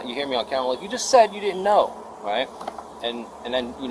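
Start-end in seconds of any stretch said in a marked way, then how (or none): 0.8-1.9 high, loud retold accusation; getting mad. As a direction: call out the lie, mad. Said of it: "getting mad at this point".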